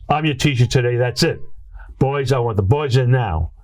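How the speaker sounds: mildly acted no-argument teacher order; firm teacher command. Teacher overrules protesting kids in story.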